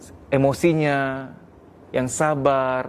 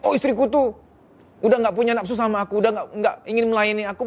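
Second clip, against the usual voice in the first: higher, whiny complaint of a neglected husband; lightly voiced grumbling husband; imitating sulking husband; 5 semitones higher than usual. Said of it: "kesalahpahamnya banyak". (suami yang merajuk, nada tinggi)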